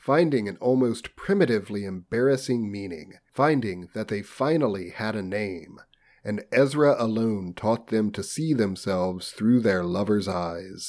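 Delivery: measured, formal audiobook delivery; story narration. A narrator's reading. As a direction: read it out like a literary audiobook. Reads novel aloud.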